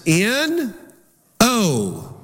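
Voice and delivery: N, then O, each letter on its own; spelled out. Shown as a demonstration. Preacher spelling the word for his congregation. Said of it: "write down this".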